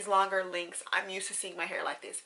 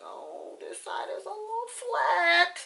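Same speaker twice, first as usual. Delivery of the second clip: mock fussy complaint; 11 semitones higher, 5 dB louder, slower than usual. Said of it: "'cause I'm like".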